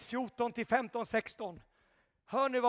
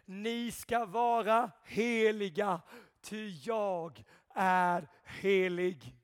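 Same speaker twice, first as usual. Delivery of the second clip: reverent reading; 3 semitones lower, slower than usual. Acted. Preacher reading scripture reverently to the church, slowly. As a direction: let the scripture settle. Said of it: "Det står skrivet".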